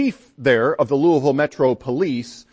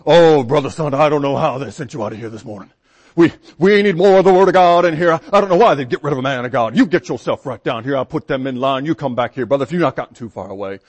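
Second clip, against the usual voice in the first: booming, louder sing-song police captain; sing-song strong voice; 5 dB louder than usual. Retold or imitated. Police captain calling preacher back, booming sing-song. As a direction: boom it out like a big-voiced captain. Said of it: "one of those sing-song, strong voices".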